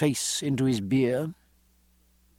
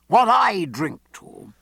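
slow, raised, declamatory toast; crying a toast; 6 semitones higher, 5 dB louder, slower than usual. A narrator's reading. Loder standing to toast at Fox, crying out slowly. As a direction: proclaim it slowly, higher and louder. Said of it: "cried Loder".

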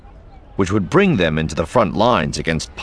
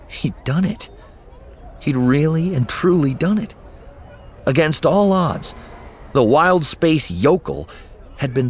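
excited; 7 semitones higher than usual. A narrator's reading. Eli's triumphant inner thoughts.

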